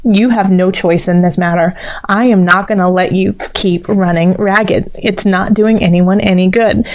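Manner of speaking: a hint of a firm, no-nonsense partner; stern partner. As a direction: lay down the law kindly but firmly. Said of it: "staring you down like the Queen of Swords".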